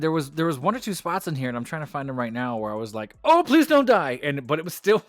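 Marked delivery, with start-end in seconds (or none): 3.2-4.2 high, loud mock-panicked plea; hammed-up frightened outburst; retold alarm. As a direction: cry it out in exaggerated alarm. Retells own alarm at risky spot.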